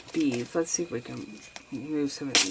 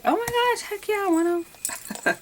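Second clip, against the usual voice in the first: very high, loud, thrilled squeal; excited squeal; 5 dB louder than usual. Retold or imitated. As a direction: squeal it like a gift just landed in your lap. I was like.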